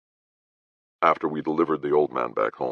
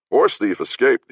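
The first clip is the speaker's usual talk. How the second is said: put-on old townsman; 9 semitones higher, 5 dB louder than usual. Stooped bearded man answers.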